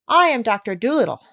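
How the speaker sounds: a touch of the doctor's manner; imitating the doctor. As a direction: parrot mimicking a kindly man's voice. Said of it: "just the way the doctor would have said it".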